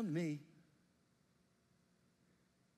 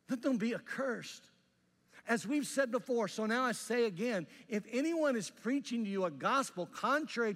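higher, louder fierce curse; holy rant; 6 semitones higher, 8 dB louder than usual. Retold or imitated. Paul cursing false preachers, loud fierce preaching. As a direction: pronounce the curse with full force. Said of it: "a holy rant".

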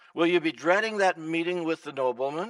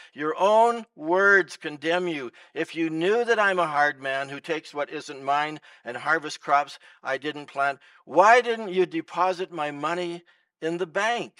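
king roaring; 5 dB louder than usual. Acted. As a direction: thunder judgment at the servant. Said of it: "the king roared".

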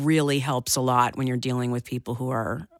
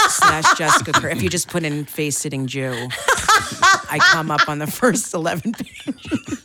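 laughing; 2 semitones higher, 4 dB louder than usual. Real, not acted. Laughing through dirty joke.

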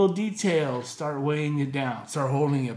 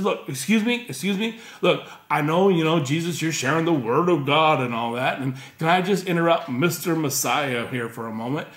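loud, exasperated interrupting; worked up; 4 dB louder than usual. Retold or imitated. Martha interrupting Jesus, loud and worked up. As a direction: barge in, fed up and indignant. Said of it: "she is worked up".

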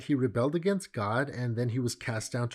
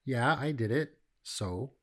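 flippant shrug. Retold or imitated. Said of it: "half-hearted confession".

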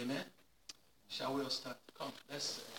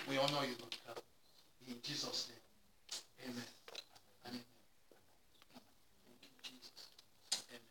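murmured amen; 9 semitones lower, 22 dB quieter than usual. Acted.

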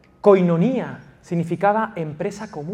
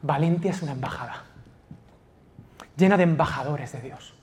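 usual speaking voice

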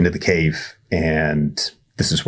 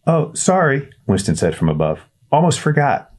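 put-on high, hesitant kid voice; a nervous boy calling down a well; shy boy Winston; 9 semitones higher than usual. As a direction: Winston introducing himself awkwardly. Winston speaking from above.

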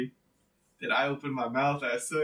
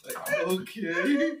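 slow, stunned acknowledgment; mock shocked; 2 semitones higher, much slower than usual. The speaker replaying learning what it meant, mock shocked. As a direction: drag it out as if only now taking it in. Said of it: "I just sat there all shocked".

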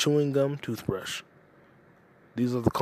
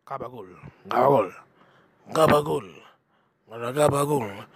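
mock Italian-American accent. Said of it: "repeated mock pronunciation".

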